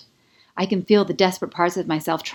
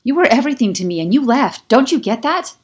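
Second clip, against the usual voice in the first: loud, high, on the edge of tears; choked, hurt shout; tearful anger; 7 semitones higher, 8 dB louder than usual. A narrator's reading. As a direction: fight back tears while accusing. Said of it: "My chin quivers".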